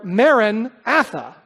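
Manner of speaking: Maranatha drawn out slowly, a second stress pattern. Shown as a demonstration. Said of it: "you can basically say it two ways".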